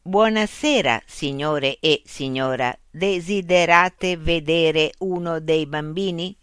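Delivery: slow, polite machine receptionist; robot nurse greeting. Acted. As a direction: greet them like ordinary visitors, slowly. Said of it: "li salutò come se fossero dei visitatori".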